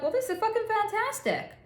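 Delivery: high-pitched mock delight, quoting them; thrilled newcomer. Acting out men new to industry.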